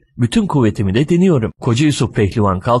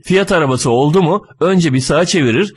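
higher-pitched, irritated tirade; angry lecturing; 5 semitones higher than usual. Acted. Driver lists every car make's handle, angry lecturing. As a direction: rattle off the obvious in exasperation. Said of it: "Şoför büsbütün kızıyor".

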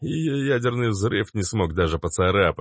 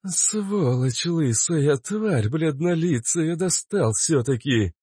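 strained, slow moaning curse in a raised woman's voice; стон кобры; 8 semitones higher, slower than usual. A narrator's reading. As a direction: groan it out through pain. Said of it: "простонала она". (простонала, медленно и высоко)

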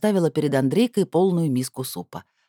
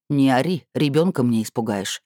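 threatening. Acted. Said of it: "угрожающе сказала я".

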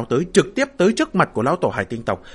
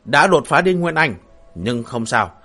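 cold threat; 4 dB louder than usual. Acted. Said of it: "Lục gia lạnh lùng".

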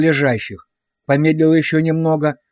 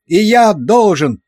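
loud, higher, slow screamed chant; screaming with all might; 5 semitones higher, 5 dB louder, slower than usual. A narrator's reading. Soldiers bawl the prayer as loud as they can, screamed. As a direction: scream it at the top of the lungs. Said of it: "солдаты вопили, что есть мочи".

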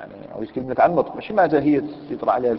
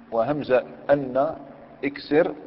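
slow drawn out; slower than usual. Shown as a demonstration. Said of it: "لو كان قال لك".

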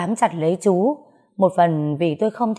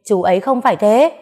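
snapping; 3 semitones higher, 5 dB louder than usual. Acted. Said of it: "Tôi gắt lên".

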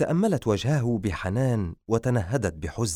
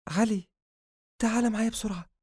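high-pitched urgent summons; urgent young doctor; 13 semitones higher, faster than usual. Acted. Habiba calls the nurse Ali to come quickly, urgent. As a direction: call a colleague to come along at once.

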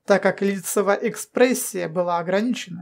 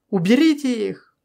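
raised, higher-pitched order; a moderately raised call of command; crying out; 4 semitones higher, 3 dB louder than usual. A narrator's reading. Feldman as a crowd floods the operating room, crying out. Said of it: "закричал Фельдман".

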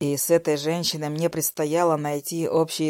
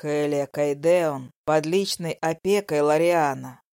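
softly; slower than usual. Acted. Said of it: "мягко сказал я".

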